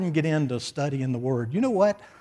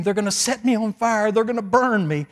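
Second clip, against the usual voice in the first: mild mock scream, raised pitch; 6 semitones higher than usual. Pastor recalling the hippie's fear of fire, mock screaming. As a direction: retell his panicked cry in a higher voice. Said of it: "this guy was screaming".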